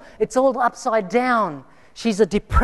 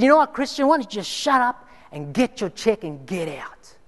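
retold anger. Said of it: "got angry with me and said".

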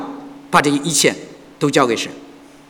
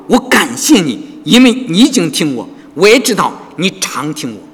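grateful prayer. Retold or imitated. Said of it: "耶稣举目望天说".

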